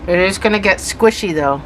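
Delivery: talking around something in the mouth; mouth full. Real, not acted. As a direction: object held between the lips. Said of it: "Sorry, I'm talking with this thing in my mouth".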